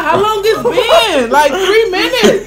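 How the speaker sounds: slow, amused laughing question. Real, not acted. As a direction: laugh it out, drawn out. Laughing at the long burn.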